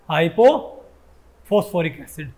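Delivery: slow, drawn-out answer. Shown as a demonstration. Teacher answering his own question, slowly spelling out हाइपोफॉस्फोरिक acid. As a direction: stretch हाइपोफॉस्फोरिक out slowly, syllable by syllable. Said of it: "इसका नाम क्या हो जाएगा?".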